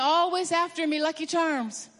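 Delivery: cheery Irish leprechaun lilt, lightly done; imitating Irish leprechaun. Pastor imitating the Lucky Charms leprechaun, light Irish brogue. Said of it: "He just had a good Irish brogue".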